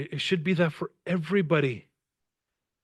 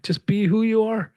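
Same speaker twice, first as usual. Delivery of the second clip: emphatic; 8 semitones higher, 4 dB louder than usual. Real, not acted. Emphatic repeated message.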